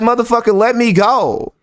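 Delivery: high-pitched pretend panic; hammed-up struggle to get free; mock freak-out. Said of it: "Wouldn't he freak out too?".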